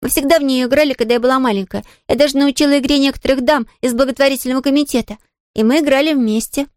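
put-on a young girl brushing off the maid's worry; little girl Pollyanna. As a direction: play the eager little girl, light and quick to reassure. Pollyanna voiced.

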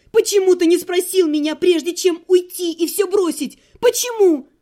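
high, loud furious tirade; furious yelling. Acted. Heroine screaming at her ex-husband, furious rant.

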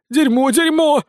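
loud, very high repeated swearing; cursing. A narrator's reading. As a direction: curse frantically, pitch shooting up. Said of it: "выругался Сисюля". (громкая ругань высоким голосом)

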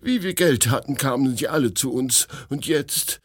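high, lamenting protest; aggrieved refusal. A narrator's reading. Refusing money to the prince, high and aggrieved. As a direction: protest as if wronged.

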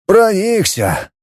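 slow, dejected «Проникся»; sulky reply; glum. A narrator's reading. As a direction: echo «Проникся» in disappointment. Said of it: "уныло откликнулся".

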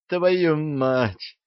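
pained oath, groaned out. A narrator's reading. Archie groans after the giant knocks him down. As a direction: curse through the pain. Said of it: "простонал Арчи".

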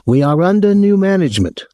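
high-pitched, aggrieved hotel official; aggrieved man. A narrator's reading. Hotel man phoning a guest about his visitor, aggrieved. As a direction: put on a high, officious voice of complaint.

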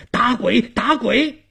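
high, loud panicked yells; old man shouting at a ghost; repeated frightened shouting. Acted. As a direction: yell it in alarm, twice over. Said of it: "直吓得老汉连声大喊".

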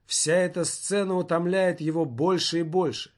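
ordinary delivery

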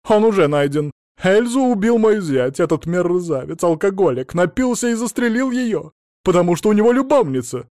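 loud, high indignant rant; shrill tirade. Acted. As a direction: spit out the accusations. Mother ranting about son-in-law.

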